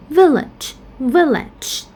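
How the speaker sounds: "village" stressed on VIL; "village" as VIL-lage, weak second vowel; first-syllable stress. Shown as a demonstration. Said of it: "we pronounce the first syllable".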